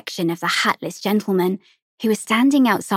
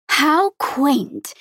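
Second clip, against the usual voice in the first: smiling; 6 semitones higher than usual. A narrator's reading. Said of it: "the pretty lady said, smiling".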